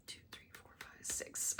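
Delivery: whispered counting under the breath. Real, not acted. Counting while working.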